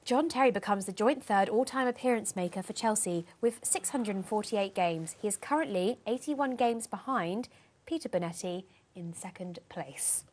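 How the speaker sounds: a lightly put-on posh newsreader read. Co-host reads the weekly stats in a mildly posh voice. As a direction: read it as if you were a very proper English announcer. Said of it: "Okay, do your posh voice".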